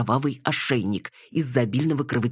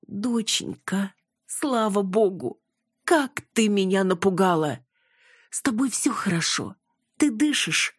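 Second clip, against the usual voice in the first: worried mother; 6 semitones higher than usual. A narrator's reading. Mother checking her daughter is breathing, worried. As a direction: fuss over her in a high, worried voice. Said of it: "беспокоилась Валентина".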